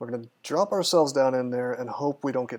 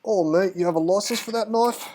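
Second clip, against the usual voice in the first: loud, high, hammed-up mock-British voice; terrible British accent that slides into Australian; bad British accent; 7 semitones higher, 5 dB louder than usual. Streamer mocking British knife laws, hammed-up British accent. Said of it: "more Australian accent than anything".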